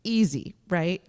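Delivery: dry, understated sarcasm; deadpan irony, lightly done; sarcastic. Real, not acted. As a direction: say it as if it were no big deal, not meaning it. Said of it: "that was sarcasm, by the way".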